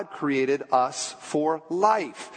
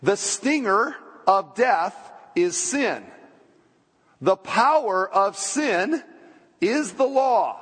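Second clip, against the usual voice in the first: slow, raised-pitch scripture reading with STINGER spelled out clearly; deliberate teaching re-read, higher and spaced out; emphatic re-reading; 4 semitones higher, slower than usual. Shown as a demonstration. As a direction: read it slowly so they follow, lifting POWER and LAW. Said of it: "Let me read it again".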